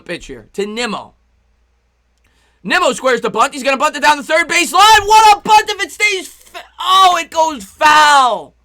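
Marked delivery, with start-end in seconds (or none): 2.6-8.6 excited bunt call. Real, not acted. Streamer calling Nimmo's bunt to his viewers, thrilled then crushed. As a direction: call the bunt as it rolls, then wail as it goes foul.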